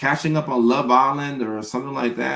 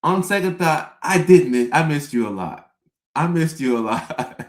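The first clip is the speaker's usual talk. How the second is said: sudden change of heart; 4 semitones higher, 3 dB louder than usual. Retold or imitated. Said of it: "I'm like".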